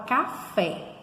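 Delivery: "café" with the final "fé" brought out; teacher's demonstrative "café", weight on the end; stressed last syllable. Shown as a demonstration. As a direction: lean on the "fé" in "café". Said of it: "a sílaba forte é o".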